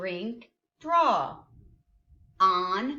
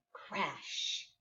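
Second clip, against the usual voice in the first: whisper; 5 semitones lower, 11 dB quieter than usual. Shown as a demonstration. Whispered answer after hint.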